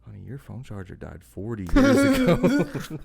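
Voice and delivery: slow punchline that breaks into a laugh; deadpan joke cracking into laughter. Retold or imitated. Retelling the boyfriend's bit to a friend, laughing slow and loud. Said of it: "his bit would be".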